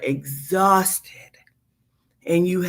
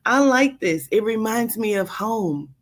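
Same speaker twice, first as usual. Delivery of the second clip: mildly delighted, taking in a nice room; pleased approval; 3 semitones higher than usual. Acted. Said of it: "You like".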